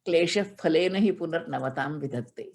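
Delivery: steady chanted Sanskrit recitation; scripture chant in class; verse recitation. Acted. Quoting Kalidasa verse.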